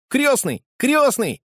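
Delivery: put-on high, loud excited call of a boy; boy shouting. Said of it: "закричал он".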